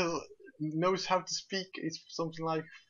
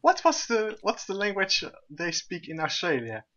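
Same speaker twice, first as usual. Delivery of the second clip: quiz host; 5 semitones higher than usual. Retold or imitated. Retelling a dating quiz show, lightly mocked host asking. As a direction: ask it like a lightly mocked TV quizmaster. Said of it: "something like".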